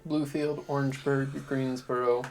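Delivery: scene narration. A narrator's reading. DM sets the scene.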